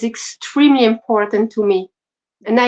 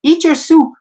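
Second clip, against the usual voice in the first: mild mock shout, higher pitched; raised-voice retelling of a scolding mum; mother's retold shout; 5 semitones higher, 4 dB louder than usual. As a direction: imitate a mother shouting an order, half-strength. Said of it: "my mother would shout at me".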